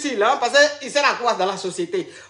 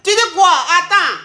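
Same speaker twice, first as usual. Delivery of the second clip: shocked; 4 semitones higher, 5 dB louder than usual. Real, not acted. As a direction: stop him in stunned disbelief. Coach shocked by confession.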